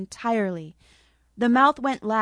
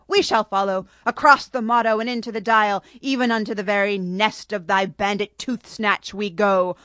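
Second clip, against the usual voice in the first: mock-grand proclamation; 4 dB louder than usual. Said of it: "she commanded, grinning".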